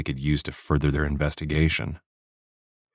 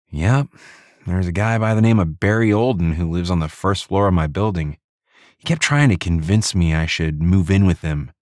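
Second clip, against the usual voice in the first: female detective voice; 3 semitones higher than usual. Acted. Narrator voices Di.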